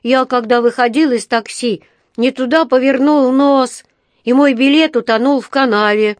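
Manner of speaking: high, loud, eager little bear; Paddington the bear cub. A narrator's reading. (взволнованный медвежонок, высоко и громко)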